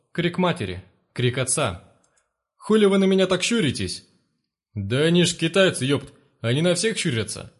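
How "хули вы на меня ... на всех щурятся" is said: rough jeering shout. Acted. Thugs jeering at the family.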